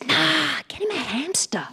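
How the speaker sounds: high-pitched, offhand brush-off, imitated; breezy dismissal. Doctor brushing off a parent's worry about pet work, breezily dismissive.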